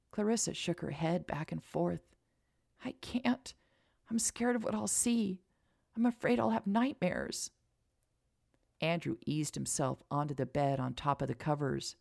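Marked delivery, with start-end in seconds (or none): 2.8-7.5 scared. Acted. Frightened girl refusing sleep.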